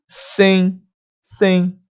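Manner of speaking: "sem" as a nasal "sẽi"; "sem" with open nasal ending, no sounded M; nasal glide. Shown as a demonstration. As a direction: let "sem" ring through the nose into an i. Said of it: "esse fanho".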